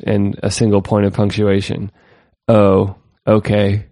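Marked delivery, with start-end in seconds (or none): 2.5-3.9 slow, deadpan dismissive tweet reading; dry, drawn-out mock acceptance; sarcastic. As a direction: read it slowly, drowning in sarcasm. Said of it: "the sarcasm, we're drowning in it".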